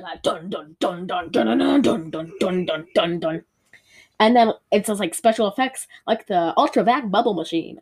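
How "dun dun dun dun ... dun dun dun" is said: mock warpath drums. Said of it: "like, Indian warpath music".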